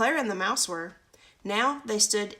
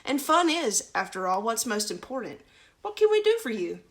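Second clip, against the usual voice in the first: donkey's voice; 3 semitones higher, 4 dB louder than usual. Acted. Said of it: "smiled the donkey".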